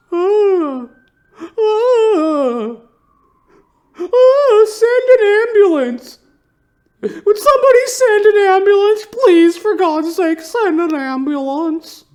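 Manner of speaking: shrieking, very high and loud, slow desperate wails; hysterical scream for help. Pretend. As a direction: scream for an ambulance in hammed-up terror. Mock screaming victim calling for help.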